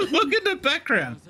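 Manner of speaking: talking through a laugh. Real, not acted. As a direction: say it while cracking up.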